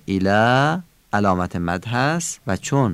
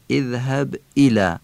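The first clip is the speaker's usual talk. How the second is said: اذهب ایلا with a crisp attack on the "i" of ایلا; stressed hamza; 3 semitones higher than usual. Shown as a demonstration. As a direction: punch the glottal start of each word in اذهب ایلا. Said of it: "نبر همزهٔ ایلا".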